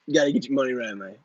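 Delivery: lightly voiced pep-talk guru, a hint of swagger; Grant impression. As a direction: toss off a mild Grant-style money lecture. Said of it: "that was my Grant impression".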